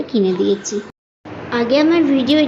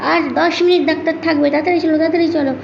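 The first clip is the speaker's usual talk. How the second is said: higher-pitched imitation of hurrying someone; urging; 5 semitones higher, faster than usual. Husband hurrying wife to the doctor, urgent retold quote. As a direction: mimic an impatient hurry-up.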